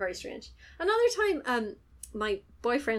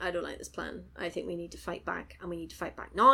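a hint of hushed, determined dissent; lightly voiced English guy; 4 semitones lower than usual. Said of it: "the English guy's like".

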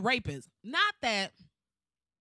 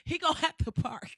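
whispered; 7 semitones higher than usual. Pretend. To the audience, a whispered petty threat. Whispered aside, then repeated aloud.

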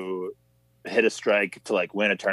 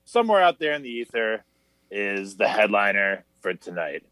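game show host intro; lightly hammed-up show host. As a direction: welcome the audience like a TV host. Hosts a mock show intro.

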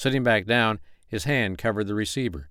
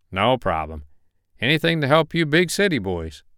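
higher, upbeat Southern lawman; polite Carolina investigator on phone; friendly investigator voice; 4 semitones higher, 4 dB louder than usual. Acted. Malone teasing.

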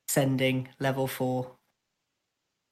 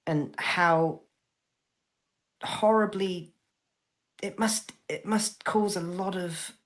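higher, halting, earnest worry; hurt, earnest; 3 semitones higher than usual. Acted. Spyro defends Jude to Takis, hurt but earnest. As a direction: hold on to trust through the hurt.

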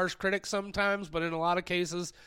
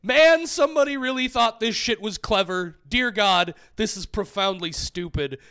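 disgusted reading; 3 semitones higher, 6 dB louder than usual. Shown as a demonstration. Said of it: "goes something like this".

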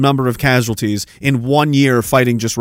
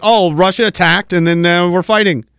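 mock dismissive quote; 3 semitones higher than usual. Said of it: "He just said it like".

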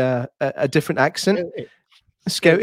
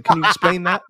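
politely puzzled executive, slowing on the slang; careful, halting mock executive; baffled BBC executive. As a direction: query the Scottish words in a different accent. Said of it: "I'm a B B C executive".

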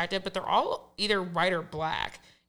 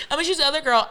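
laughing quote; 6 semitones higher, 5 dB louder, much faster than usual. Retold or imitated. Voicing the guy, laughing.

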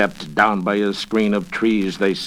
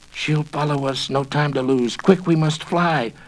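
urgent; 5 semitones higher than usual. Acted. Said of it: "Miranda cried".

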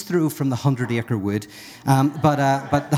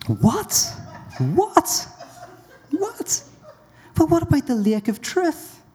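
high-pitched, squeaking incredulity; each question leaps higher, stunned; shocked disbelief; slower than usual. Acted. Frog shocked by news of affair.

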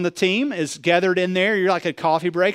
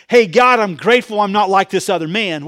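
breezy self-satisfied prayer; 4 dB louder than usual. Pretend. Preacher shows how the tax collector didn't pray, breezy and loud. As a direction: toss it off like you're chatting with a buddy. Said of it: "he didn't say".

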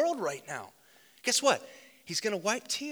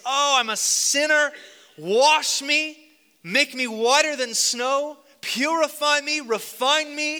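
loud, higher, pleading cry; model sinner's prayer; 3 semitones higher, 6 dB louder than usual. Pretend. Pastor voicing the sinner's prayer for listeners, loud pleading cry. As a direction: pray it aloud as the sinner would. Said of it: "Cry out and say".

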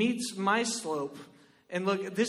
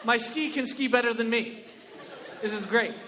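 usual speaking voice

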